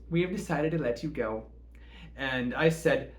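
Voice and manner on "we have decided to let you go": cheerful voice. Retold or imitated. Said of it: "she said in a cheerful voice".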